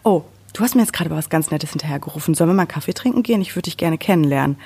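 fast, lightly voiced mock-flattered woman; mock sweet reply. Woman mocking a catcaller's dream reply, fast and sugary. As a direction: rattle it off as an absurd fantasy. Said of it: "dass die Frau gesagt hat".

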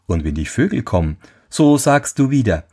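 lightly voiced helpful horse; talking horse. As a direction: instruct him like a wise little horse.

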